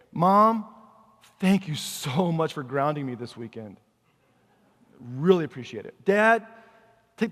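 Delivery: mock-grateful, sulky kid thanking his parents; sarcastic kid. Kid sarcastically thanking Mom and Dad for punishment, mock-grateful. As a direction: play a kid sarcastically thanking for being grounded.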